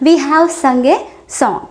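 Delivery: each word slowly and separately for learners; deliberate teacher pacing; slow model sentence. Shown as a demonstration. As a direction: spell it out slowly for the class. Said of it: "teacher models the sentence".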